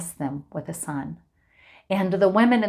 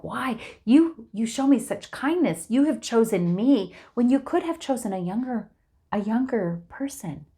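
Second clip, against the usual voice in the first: surprised Boaz; 6 semitones higher than usual. Acted. Boaz surprised at Ruth's request.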